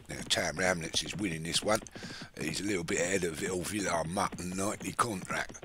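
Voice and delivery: light put-on Cockney commentary; a lightly done Cockney race call; half-hearted Cockney accent on the race. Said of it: "Maybe I should talk like Cockney".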